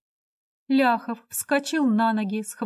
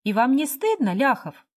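stunned exclamation, louder on стыдно; exclaiming; 5 semitones higher, 4 dB louder than usual. Acted. Hostess crying out in shock at drunk Lyakhov, an exclamation. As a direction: cry out in shock at him. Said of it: "воскликнула Александра Михайловна".

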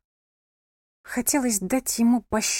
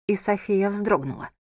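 normal talking voice

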